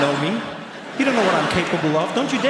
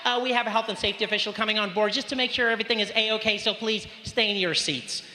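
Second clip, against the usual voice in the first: high, polite cabin-crew PA voice; flight attendant announcement; 5 semitones higher than usual. Retold or imitated. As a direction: announce it like a cheery air hostess over the intercom. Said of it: "She's like".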